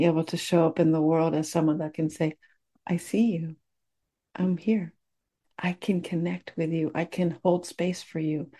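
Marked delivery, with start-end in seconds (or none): 2.9-8.5 hushed, near-whispered promise of presence; soft tender quote. Retold or imitated. Gentle hushed voice. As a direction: speaker to a hurting person, softly offering to hold space. Quoting an open, present heart.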